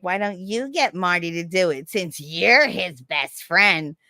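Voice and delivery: slow, nasty mock suggestion; drawn-out needling; retold nastiness. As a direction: imitate a snide teacher, drawing the words out. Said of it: "got nasty with me".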